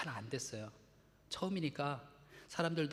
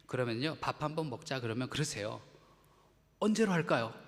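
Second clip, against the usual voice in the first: joking reply; 3 dB louder than usual. Shown as a demonstration. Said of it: "제가 농담 삼아 그랬어요".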